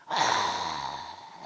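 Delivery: long, low mock bawl; drawn-out mock cry; imitated childhood wail. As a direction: drag out an imitation of a child's crying. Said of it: "엉하고 막 소리 지르면서 우는 거예요".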